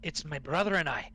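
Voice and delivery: a lightly voiced old dwarf, leaning in to share a secret; hushed dwarf voice. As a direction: Gundren hiring the party in the tavern, lightly voiced. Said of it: "slightly more hushed voice".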